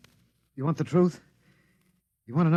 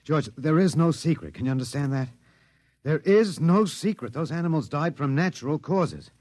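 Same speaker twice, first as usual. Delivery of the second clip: raised, urgent plea to be believed; pitched-up desperate insistence; desperate pleading; 4 semitones higher than usual. Acted. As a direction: beg him to believe the truth. Prisoner pleading with alien captor.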